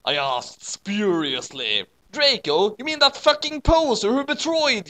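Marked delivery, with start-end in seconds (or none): 2.1-4.9 higher, louder angry snarl. A narrator's reading. Vampire scorning Draco, louder angry snarl. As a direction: sneer with anger. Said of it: "snarkled with anger in his sexy voice".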